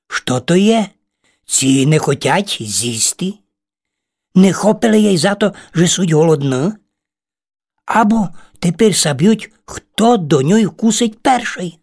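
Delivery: lightly voiced little ladybird, puzzled and scared; a small bug wondering if she'll be eaten; frightened ladybird. Ladybird asks the spiders, lightly scared.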